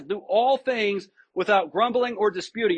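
"Do all things" with "all" leaned on; stress on all. Shown as a demonstration. Pastor rereads the verse for the congregation, stressing "all". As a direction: make "all" the weight of the verse. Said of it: "Notice he says all things".

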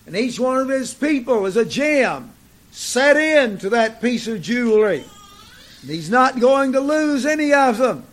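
insistent pulpit delivery, weighty key words; emphatic preaching. Real, not acted. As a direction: press the point home to the congregation. Preaches on God's people as jewels.

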